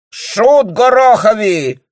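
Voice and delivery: put-on high, loud, slow accented insult; furious outburst. A narrator's reading. Nucingen furiously insulting the bailiff. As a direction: explode at the bailiff. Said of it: "вскричал Нусинген".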